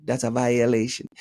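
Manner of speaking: lightly put-on Jamaican accent; mock Jamaican pronouncement. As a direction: say it with a playful Jamaican lilt. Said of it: "That's my Jamaican accent".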